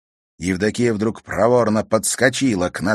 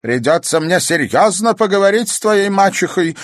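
put-on angry old woman; 12 semitones higher, 8 dB louder than usual. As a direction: tear into the girl like a furious old crone. Grandmother keeps scolding.

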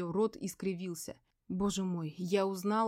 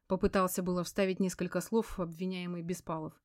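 ordinary delivery

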